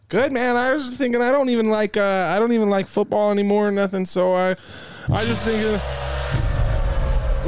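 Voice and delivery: high, loud put-on caller; hick caller voice. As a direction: squeal it like a yokel caller. Caller Dennis voice.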